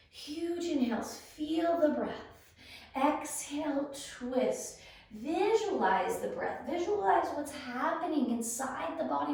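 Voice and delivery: cue each breath with energy, stretching the inhales and exhales; guided breathwork cueing. Acted. Yoga teacher leading viewers through breaths and twists, guided cueing.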